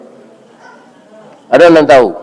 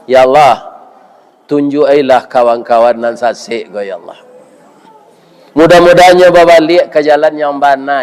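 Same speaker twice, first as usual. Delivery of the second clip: prayer. Acted. Preacher praying for cheaters before the congregation, earnest and fading. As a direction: pray aloud for straying brethren, voice dropping.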